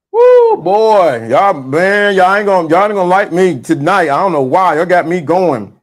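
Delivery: normal talking voice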